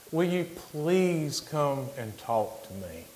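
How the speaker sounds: slow, high, pleading call; mild holler, stretching out the plea; imitated holler. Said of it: "he hollered back at me again".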